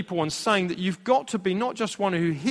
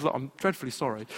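softly spoken mock-British apology; polite apology; 3 semitones lower, 6 dB quieter, faster than usual. Dad apologises to the lady by the window, very polite. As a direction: imitate a very polite, quiet apology. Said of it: "'cause he's very polite".

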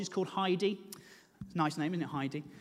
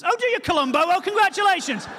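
sarcastic; 5 semitones higher, 4 dB louder than usual. Retold or imitated. Sarcastic retort to midwife.

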